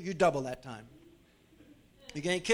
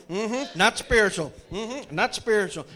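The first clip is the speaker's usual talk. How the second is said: mock disapproving preacher; 2 semitones higher, 6 dB louder, slower than usual. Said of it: "The preacher's gonna be standing there".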